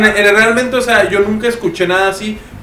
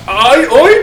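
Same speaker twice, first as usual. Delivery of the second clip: startled cry; 7 semitones higher, slower than usual. Real, not acted. Door slams shut suddenly.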